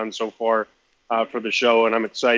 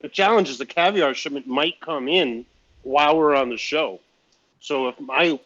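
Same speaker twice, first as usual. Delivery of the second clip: mouth full. Real, not acted. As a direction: still chewing while talking. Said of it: "pardon me while I speak with my mouth full".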